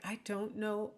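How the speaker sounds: puzzled student, rising sharply on "say"; confused student. Acted. Student not following the lecture, confused and questioning. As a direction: question it as if completely lost. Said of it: "a student is like".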